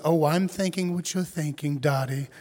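playful daughter, rising to a laugh; little girl voice. Retold or imitated. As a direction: voice your four-year-old asking to dance. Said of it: "She goes".

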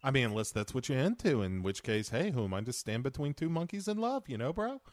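easygoing bro voice, lilting up; bro impression. Riffing as the movie hero, casual bro impression. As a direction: play a laid-back, tolerant bro.

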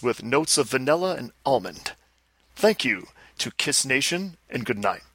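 lightly impersonated rock star; a hint of self-important celebrity announcement; a rock musician. Star answering host about autographs, light impersonation. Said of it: "Gene, doesn't that".

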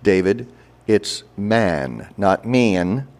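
slow, corrective teacher voice; over-enunciate the vowel like a drama coach; drama teacher correcting. Retold or imitated. Drama teacher correcting a student's Baltimore vowel, slow and exact. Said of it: "my drama teachers in high school started saying".

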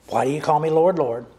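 loud rebuking Lord question; pleading challenge. Acted. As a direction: challenge them, Lord rising. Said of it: "he's addressing the question".

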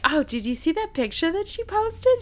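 high, loud put-on grandma voice; grandma impression. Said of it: "she was like".

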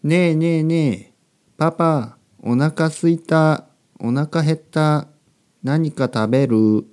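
lightly voiced child pestering a parent; child talk. Shown as a demonstration. Child asking papa for food, imitated childish whine. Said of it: "子供の日本語というと".

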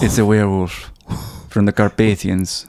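low, portentous imitation; lightly voiced grave janitor. Janitor confessing his origins, mock grave.

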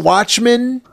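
loud, high ad announcer; hyped network promo voice. Retold or imitated. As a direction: announce the show title like a trailer.

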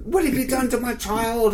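high-pitched mock distraught mum; drunk mother. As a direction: wail it as a tipsy, accusing mother. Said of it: "she's a bit drunk".

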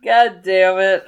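slow curse through giggles; laughing. Real, not acted. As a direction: laugh while you swear. Cracking up again mid-take.

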